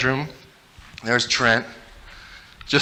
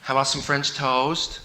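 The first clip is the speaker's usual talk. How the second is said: sweet mom offering; 3 dB quieter than usual. Retold or imitated. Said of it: "little menu ready that she wanted to offer us".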